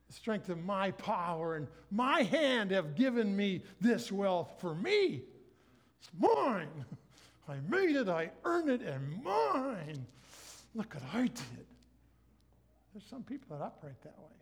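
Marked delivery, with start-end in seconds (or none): 0.1-11.7 mock proud braggart, slow and loud; proud boaster. The proud man boasting of his wealth, hammed up. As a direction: puff up over your own wealth. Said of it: "It says, Do not say to yourself".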